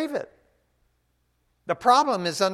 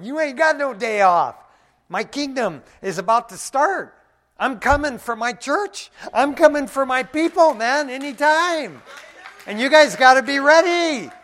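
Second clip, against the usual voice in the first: loud, higher, commanding; voice of God; 8 semitones higher, 10 dB louder than usual. Retold or imitated. God answering the tired believer, loud and commanding. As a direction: boom it out like a heavenly summons. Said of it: "God's going".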